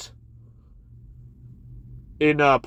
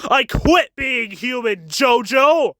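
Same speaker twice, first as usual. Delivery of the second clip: higher, slow gleeful villain cry; villain declaration; 4 semitones higher, slower than usual. Retold or imitated. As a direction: proclaim it like a gloating villain.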